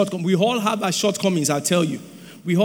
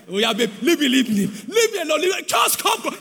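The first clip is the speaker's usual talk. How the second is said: mock coy wife; 6 semitones higher than usual. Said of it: "whatever she's saying is the opposite".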